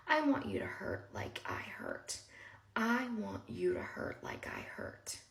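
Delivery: slow, deliberate retold menace; drawn out, word by word, at moderate volume; retold threat. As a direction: weigh each word of the threat.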